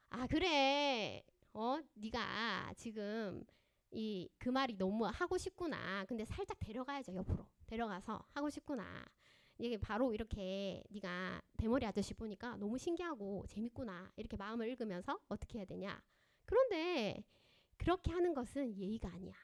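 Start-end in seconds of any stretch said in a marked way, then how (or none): 0.1-14.1 very slow, soft, calm mother's voice; gentle and understanding. Shown as a demonstration. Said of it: "이렇게 해야죠". 16.4-19.3 gentle correction. Shown as a demonstration. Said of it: "이렇게 해야죠".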